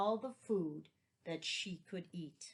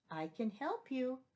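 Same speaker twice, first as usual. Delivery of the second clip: higher, small ant voice; 5 semitones higher than usual. Acted. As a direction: speak up like a tiny ant. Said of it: "they heard a small voice".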